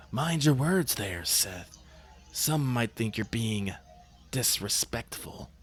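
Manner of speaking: quiet, slow and cold; cold warning. Acted. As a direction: warn him coldly, no heat. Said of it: "turns a little cold".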